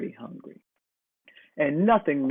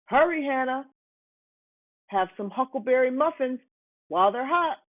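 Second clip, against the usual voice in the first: Homer calling; 9 semitones higher than usual. A narrator's reading. Homer the baker voiced.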